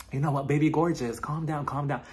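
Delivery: soft, soothing impression; Lisa. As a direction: imitate a friend talking someone down, softly. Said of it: "trying to calm her down".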